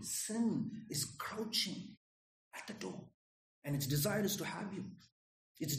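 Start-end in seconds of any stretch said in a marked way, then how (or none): 0.0-3.0 slow, breathy near-whisper; hushed warning. Real, not acted. Preacher hushing the congregation about sin, slow whisper. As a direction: lean in and whisper the danger.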